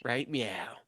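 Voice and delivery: whispered pun. Real, not acted. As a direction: breathe the joke out. Cat pun.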